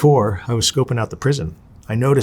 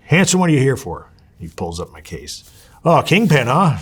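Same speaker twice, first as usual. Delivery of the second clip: loud, pitched-up teasing official; amused counselor; 4 semitones higher, 4 dB louder than usual. Retold or imitated. Counselor teasing the new orderly about his record, loud and amused. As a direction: needle him like a boss who just read the file.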